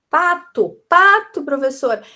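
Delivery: high, loud, eager answer; child answering teacher. Acted. Child tells the teacher the word found, high eager call. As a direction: call out the discovery like a pupil. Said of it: "Ela vai".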